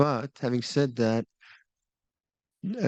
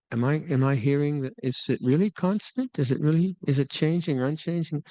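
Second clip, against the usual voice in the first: higher-pitched puzzled self-questioning; mock inner questioning; 3 semitones higher than usual. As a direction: act out a mind busily second-guessing itself. Acting out the analysing mind's questions.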